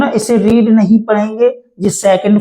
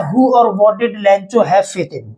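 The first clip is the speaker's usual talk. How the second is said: dictating slowly; much slower than usual. Shown as a demonstration. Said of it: "teacher reads question slowly".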